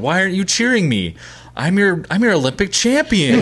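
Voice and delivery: high-pitched mock yell at a crowd; Kurt Angle yelling. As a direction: imitate an indignant wrestler hollering for cheers. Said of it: "starts yelling at the crowd".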